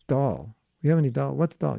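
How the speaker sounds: "dal" said the American way, plain untrilled d. Retold or imitated. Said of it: "I do it my American way".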